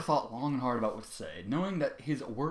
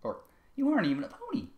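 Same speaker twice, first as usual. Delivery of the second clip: calmer redo; 8 semitones higher than usual. Acted. Sweetball challenges Trevor again, redone without yelling. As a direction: pull it back from the yell. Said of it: "I can't do fucking Sweetball with all this yelling".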